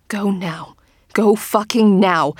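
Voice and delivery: slow, pressing, rising to loud; urgent. Acted. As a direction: force yourself to move. Urgent inner command.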